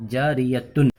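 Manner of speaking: جاریتن said in full with the t and nunation; nunated form demo. Shown as a demonstration. Teacher shows the full form before the pause. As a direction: say جاریتن with its ending intact. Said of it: "گول تا پر وقف کرنا ہو تو".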